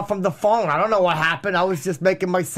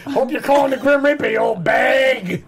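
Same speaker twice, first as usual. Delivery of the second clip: hammed-up yelling, higher pitched; mock yell; 4 semitones higher than usual. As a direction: sneer it like a nasty daughter. Acting out the strangling daughter.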